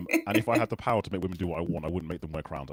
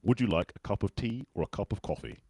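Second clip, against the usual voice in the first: British accent model phrase, measured and clear; British English accent; 3 dB quieter than usual. Shown as a demonstration. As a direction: say it in a British accent for someone to copy. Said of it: "Let's try one".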